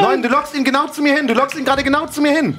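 laughing panic. Real, not acted. Monster wird zu ihm gelockt.

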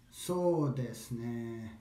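very slow "So desu ne"; slow, pondering drawl; drawn out, thinking. Shown as a demonstration. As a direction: stretch "So" and "ne" as if buying time to think. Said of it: "Draw it out".

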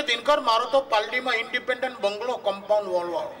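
high-pitched bragging friend voice; boastful friend. Retold or imitated. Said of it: "એક ભાઈબંધ તો મને કે".

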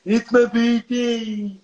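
emotional quote. Retold or imitated. Streamer quoting a dead friend's last words, slow and emotional. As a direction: draw out the last words, voice lifted.

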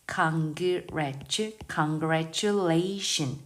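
"congratulation" spelled out very slowly, stress late on "la"; slow stressed model. Shown as a demonstration. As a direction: drag "congratulation" and punch "la". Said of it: "아주 뒤에 강세가 있으니까". ("congratulation"을 아주 천천히, 뒤 강세로)

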